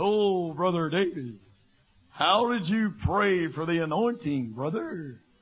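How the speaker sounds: eerie, spooky voice with a genuinely spooky tone. Speaker imitates people who ask him about praying, in a mock spooky tone. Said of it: "they get this real spooky tone of voice".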